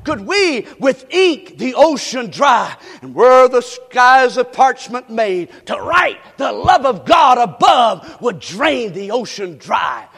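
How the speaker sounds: slow, loud, stretched recitation of the hymn; hymn recited at full force. Acted. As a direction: declaim each line slowly. Preacher reciting hymn lyrics.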